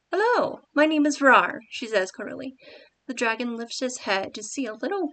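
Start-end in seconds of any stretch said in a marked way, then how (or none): 0.1-1.6 hello pitched much higher and louder; redone higher greeting. Shown as a demonstration. Writer redoing Rar's greeting, pitched much higher. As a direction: lift the hello high and bright.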